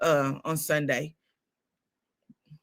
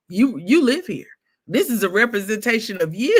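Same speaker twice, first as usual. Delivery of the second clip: lightly voiced mailman; 4 semitones higher, 4 dB louder than usual. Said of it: "He said".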